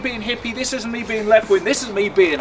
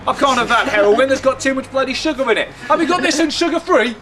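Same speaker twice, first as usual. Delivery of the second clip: mock-complaining shopper, pitch climbing into the question; fussy supermarket customer; 4 semitones higher than usual. Shopper querying a product with staff, mock fussy. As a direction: put on a lightly voiced, picky customer.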